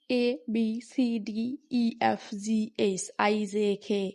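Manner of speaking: letters এ, জে, কে as plain short vowels, unaspirated; old mispronunciation. Shown as a demonstration. Teacher shows how we used to say the alphabet, old mispronunciation. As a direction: recite এ, বি, সি with flat Bengali letter sounds. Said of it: "আমরা আগে উচ্চারণ করতাম".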